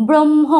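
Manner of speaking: ব্রহ্ম loud, as "brom-ho" with held m; ব্রহ্ম with dominant m. Shown as a demonstration. Teacher shows pupils the sound, ব্রহ্ম with strong m. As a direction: punch out the m of ব্রহ্ম, h light. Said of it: "উচ্চারণটা হবে এইরকম".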